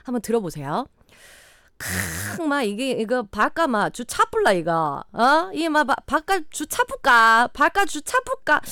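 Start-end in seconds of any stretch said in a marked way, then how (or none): 1.8-7.5 hammed-up Gyeongsang dialect, ends drawn out; 경상도 사투리. Shown as a demonstration. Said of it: "아, 이거 사투리 오늘 안 되네". 7.5-8.6 higher-pitched Gyeongsang dialect attempt; 경상도 사투리. Shown as a demonstration. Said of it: "아, 이거 사투리 오늘 안 되네".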